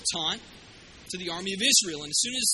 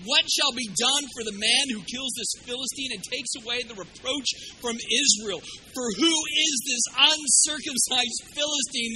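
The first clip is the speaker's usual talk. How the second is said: rising to a shout at the end; David's challenge to the Philistine, building to a shout; bold challenge. Acted. David's defiant challenge quoted.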